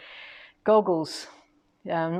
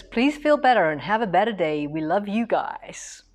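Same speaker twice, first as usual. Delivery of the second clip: bad American accent. Host reading a viewer's comment aloud, in a mock American accent. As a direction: read it like a weak American impression. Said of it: "That's not a very good American accent".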